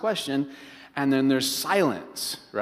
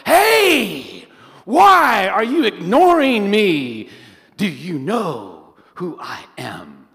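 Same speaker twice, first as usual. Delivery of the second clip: much higher, loud, slow outraged demand; mock indignant confrontation; 4 semitones higher, 6 dB louder, much slower than usual. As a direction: blow up at her for ignoring you. Confronting wife after unplugging vacuum.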